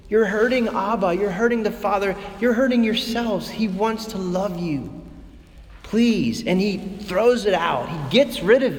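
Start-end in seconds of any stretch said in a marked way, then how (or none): 0.1-6.4 pleading. Retold or imitated. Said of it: "almost like he's pleading".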